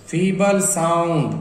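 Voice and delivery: drawn out slowly, word by word; slow demo. Shown as a demonstration. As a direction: stretch फीबल साउंड out slowly. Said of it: "फीबल मतलब धीमा". (धीरे-धीरे खींचकर)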